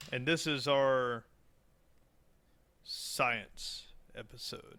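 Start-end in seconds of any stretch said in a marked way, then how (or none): 2.8-3.9 SCIENCE set off slowly, as if in air quotes; air-quoted. Real, not acted. Introducing the show's science episode, air-quoted. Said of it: "express air quotes".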